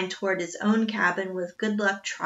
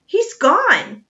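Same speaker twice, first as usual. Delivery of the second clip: louder, slow, stammering astonishment; stunned gasp; 8 semitones higher, 9 dB louder, slower than usual. A narrator's reading. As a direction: stumble over it in shock. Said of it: "Jack gasped".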